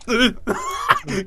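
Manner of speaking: high strained mock grunts; feeble menacing grunts. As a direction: imitate a cramped, failed attempt at intimidation. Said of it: "you can never look menacing".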